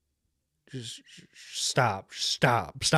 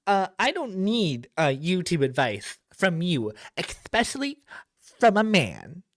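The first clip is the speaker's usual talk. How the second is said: mock snooty woman; 4 semitones higher than usual. Mocking Cataclysm's reply.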